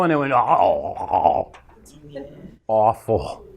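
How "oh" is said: a low "oh" with stuff in the throat; low croaky note. Retold or imitated. Speaker recalling an unwarmed voice on stage, low rough note. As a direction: drop low and let it crack. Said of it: "I went to go low".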